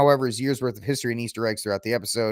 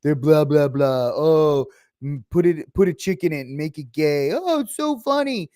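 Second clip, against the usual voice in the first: mock gushing. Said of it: "the right was just in love with them".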